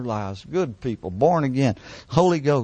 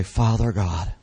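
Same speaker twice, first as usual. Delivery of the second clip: quiet prayer; 3 semitones lower than usual. Shown as a demonstration. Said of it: "loud enough to, for yourself to hear".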